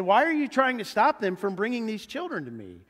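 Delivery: acted reproach; indignant. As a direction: demand an explanation, a touch angry. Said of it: "He got angry with them".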